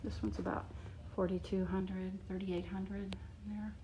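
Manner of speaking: talking while chewing gum; words around a wad of gum. Real, not acted. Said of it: "sorry, I'm chewing gum and that's terrible".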